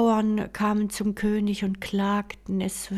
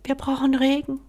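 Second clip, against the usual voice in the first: desperate plea; 5 semitones higher, faster than usual. Acted. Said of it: "flüsterte der Prinz".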